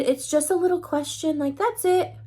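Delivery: high, lightly cutesy reassurance. Retold or imitated. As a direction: play it sweet and harmless. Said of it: "put on my little cutesy voice".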